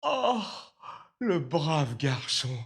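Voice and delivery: high, slow, drawn-out exclamation; rapt admiration. Acted. Father admires his obedient steward, rapt. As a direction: gush it slowly in a high voice.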